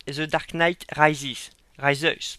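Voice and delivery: English title in a thick French accent. Real, not acted. Reviewer stumbling over an English film title, French-accented English. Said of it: "mon accent anglais, il est pas très top top".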